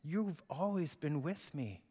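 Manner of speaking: soft and slow reassurance; father comforting his angry older son; tender father. Acted. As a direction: hold him close with the words.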